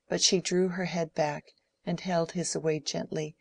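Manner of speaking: ordinary delivery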